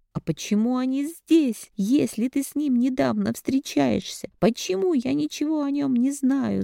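high, rising shouted questions; mother yelling at her daughter; angry demand. A narrator's reading. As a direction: interrogate her furiously. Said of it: "закричала я".

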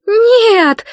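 a high, loud cry of horror; shout. A narrator's reading. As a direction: scream it out in protest. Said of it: "закричали сёстры".

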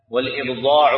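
"والإبضاع" with an i vowel after the article, ibḍāʿ; kasra on the hamza. Shown as a demonstration. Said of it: "بالكسر".

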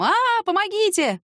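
high panicked cry for help; wild scream. Acted. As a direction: scream it as you flee. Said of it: "с диким криком".

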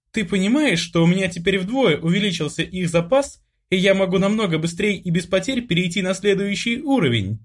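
high, eager sister voice pouring out questions; an amazed girl who can't stop asking; excited younger sister. A narrator's reading. Sister amazed at her brother, a high excited voice.

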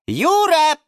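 calling out. A narrator's reading. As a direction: call to someone across the room. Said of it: "позвал он". (громко и высоко позвать)

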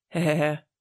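put-on a short, pleased old man's chuckle "hehehe"; hearty chuckle. The magistrate laughing at his own joke, hearty chuckle. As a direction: chuckle it out, self-satisfied. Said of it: "Szívből nevetett".

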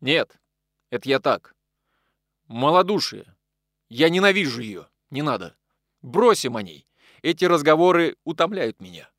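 раздражённо и громче обычного; отрезать с досадой, громко; сердито. Acted. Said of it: "сердито запахнулся и ответил". (Захаров сердито обрывает Николая, громко)

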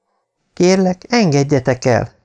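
high, pleading cry for mercy; Nancy begging her captors for her life, pleading high; pleading woman. Acted. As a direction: beg them to let her go. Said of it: "És Nancy megszólalt".

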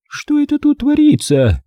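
high-pitched imperious aunt; indignant demand. A narrator's reading. Aunt demanding what is going on.

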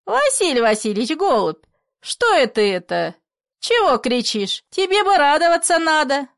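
high, loud baffled pleading; be astonished he's shouting; a puzzled friend, high and loud; bewildered. Acted. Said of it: "удивлённый, ничего не понимая".

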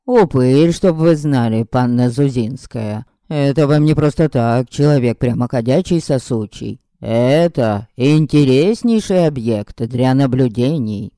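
words round a bite of food; chewing while talking. Acted. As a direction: talk through a mouthful. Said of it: "Говорил он, не прекращая жевать".

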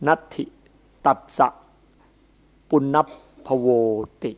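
Thai-accented Pali. Shown as a demonstration. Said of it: "พูดภาษาบาลีแบบสำเนียงไทย".

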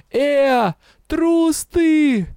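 high shouting in despair; desperate shout. A narrator's reading. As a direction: hurl it at him. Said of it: "в порыве отчаяния я закричала".

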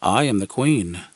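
a hint of a sultry queen; adult woman voice. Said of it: "said another, far more adult, far more feminine".

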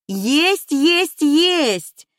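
high, jubilant exclamations; exult, each word pitched high. A narrator's reading. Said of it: "заликовала помощница по хозяйству". (ликующе, высоким голосом)

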